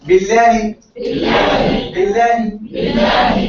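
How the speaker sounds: Billahi with a soft, flat Lam. Shown as a demonstration. Teacher drilling the soft Lam of Billahi. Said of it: "So this Lam is soft, flat".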